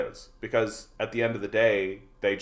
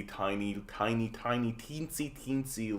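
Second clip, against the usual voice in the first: tiny small voice; 8 dB quieter than usual. Acted. Shrinking the size of reform.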